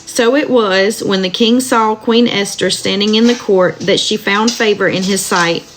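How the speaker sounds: steady, measured Bible reading aloud; scripture reading. Acted. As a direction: read the verses evenly to listeners. Reads Book of Esther aloud.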